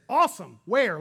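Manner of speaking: loud, eager burst: awesome, where; excited shout. Retold or imitated. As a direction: shout it out like you can't wait to go. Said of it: "And Peter says".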